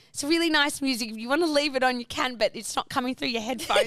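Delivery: polite, tactful retold explanation; trying to be nice. Tactfully telling a seatmate her music is audible, trying to be nice. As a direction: break it to her nicely. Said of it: "trying to be nice to her".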